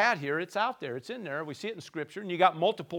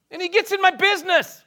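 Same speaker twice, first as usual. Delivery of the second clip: loud, high, griping shout that builds; offended churchgoer; 10 semitones higher, 12 dB louder than usual. Acted. Preacher mocking an offended believer, loud griping shout. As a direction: rant like someone fed up with Jesus meddling.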